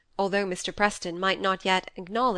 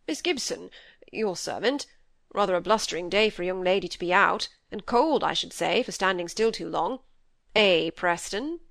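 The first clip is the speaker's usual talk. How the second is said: hint of a jovial old gentleman, knowing; lightly voiced old gentleman. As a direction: lightly play an old gentleman making teasing small talk. Voices Mister Sheepshanks in the story.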